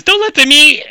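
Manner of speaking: high, loud cry for help; terrified scream. Acted. Game master as the screaming man just before he disappears, screaming. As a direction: scream the plea at full pitch. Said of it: "he's screaming".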